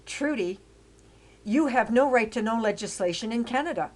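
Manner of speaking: urging her hard, voice climbing. Retold or imitated. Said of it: "He said".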